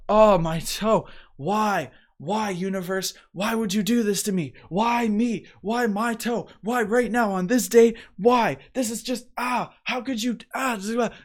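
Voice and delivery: high, loud, drawn-out whine at the universe; mock whining complaint. Mocking himself whining at the universe over a stubbed toe, high hammed-up wail.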